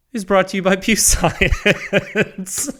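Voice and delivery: cracking up mid-sentence, slowed down; real laughter breaking the sponsor read; laughing through the ad. Real, not acted. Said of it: "I can't even say it with a straight face".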